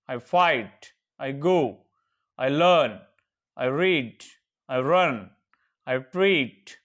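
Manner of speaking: steady, even practice drill; drill recitation. Shown as a demonstration. Teacher drilling verb forms for students to repeat. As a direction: recite each pair clearly for the class. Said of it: "practice बोलिए".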